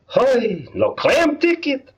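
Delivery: high, irritated shopkeeper voice; grumpy dry cleaner. Acted. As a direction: snap at the customer.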